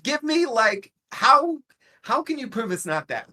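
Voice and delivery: high, loud insistent questioning; acted challenge. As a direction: argue it like a hammed-up debater. Acts out argumentative challenge in recap.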